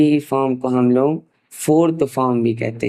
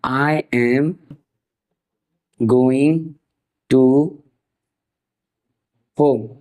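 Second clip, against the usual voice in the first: slow dictation; much slower than usual. Shown as a demonstration. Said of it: "I के साथ हमेशा लगता है am".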